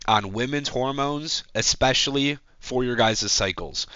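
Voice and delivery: congested, stuffy voice; talking through a blocked nose. Real, not acted. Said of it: "I sound like a congested goofball".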